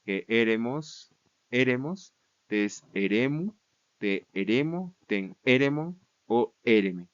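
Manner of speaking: slow chanted forms with rising ends; reciting declension. Shown as a demonstration. Teacher repeating the feminine paradigm for students, slow recitation. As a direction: go through the cases one by one. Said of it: "utilizar el artículo femenino".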